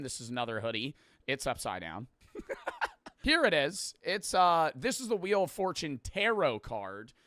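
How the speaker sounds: upbeat sponsor-style plug, punchy openings; cheerful merch shoutout; ad read. Acted. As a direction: pitch the merch like an ad host.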